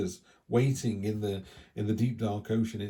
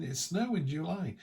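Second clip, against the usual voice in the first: higher, giddy imitation of excited lads; lightly imitated childlike excitement; excited disbelief; 6 semitones higher, 3 dB quieter than usual. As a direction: mimic kids amazed by snow. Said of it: "they were just going".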